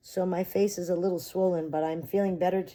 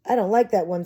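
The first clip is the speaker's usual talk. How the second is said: put-on whiny child; 5 semitones higher, 8 dB louder than usual. Child complains.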